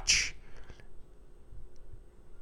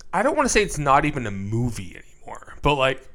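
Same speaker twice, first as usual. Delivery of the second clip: hiccups; 4 dB quieter than usual. Real, not acted. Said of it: "sorry, I'm hiccuping".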